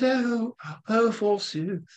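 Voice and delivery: high, lofty, put-on holy voice; a sanctimonious movie Jesus sighing forsooth; mock movie Jesus. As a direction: ham up a pious film Jesus. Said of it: "he's a lot more smooth than that".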